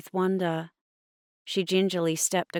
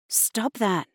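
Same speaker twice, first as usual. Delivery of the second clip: snapped; 6 semitones higher than usual. Acted. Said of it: "I snapped".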